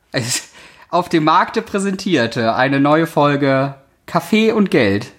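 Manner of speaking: royal herald. Pretend. Herald proclaiming the new episode.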